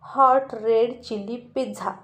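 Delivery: slow, pointed spiteful order; angry order. Acted. Aryan orders spitefully while glaring at Sweety. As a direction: spit out the order at her. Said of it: "Aryan चिडून स्वीटीकडे बघून म्हणाला".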